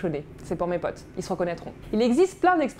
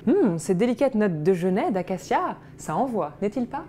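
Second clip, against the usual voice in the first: pompous wine connoisseur. Retold or imitated. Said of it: "vous dites".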